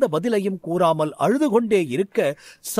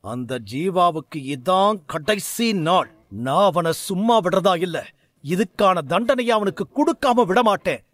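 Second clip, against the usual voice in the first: angry. Acted. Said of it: "சாரதி கோபத்தில்".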